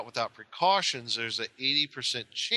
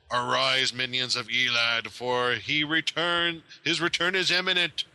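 sneering gloating dark voice. Acted. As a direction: boom it out like an evil skull. Voice booming from the skull.

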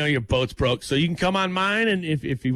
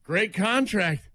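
slow dry sarcastic Great contract; 3 semitones higher, much slower than usual. Retold or imitated. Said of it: "It could be very sarcastic".

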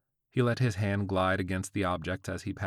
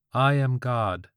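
robot voice; 5 semitones higher, 7 dB louder, slower than usual. A narrator's reading. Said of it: "robotic female voice".

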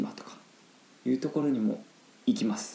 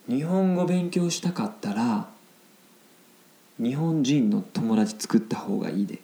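Kansai-accented example sentence, pitched up at the start; Kansai dialect; 2 semitones higher than usual. Shown as a demonstration. Teacher reads a Japanese example sentence to learners, Kansai accent. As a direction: read it out clearly with a Kansai lilt. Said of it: "関西弁になります".

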